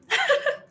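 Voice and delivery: a quick high giggle. Real, not acted. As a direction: giggle at yourself, light. Giggle at herself mid-sentence.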